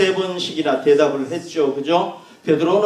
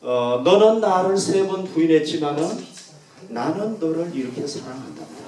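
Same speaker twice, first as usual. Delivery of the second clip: gentle love. Retold or imitated. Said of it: "하는 의미를 담고 있다고".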